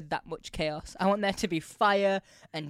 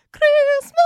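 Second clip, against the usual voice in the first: very high, loud shriek; shrieked shout; 16 dB louder than usual. Retold or imitated. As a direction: go nuts on the word. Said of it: "just goes nuts on it".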